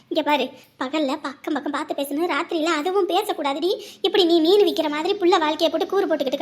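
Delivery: a hushed elder rebuking; scolding elder. Acted.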